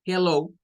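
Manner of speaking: "hello" said as "je-low" with a raspy Spanish J; Spanish J plus low. Shown as a demonstration. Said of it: "Es como la J y la E y low".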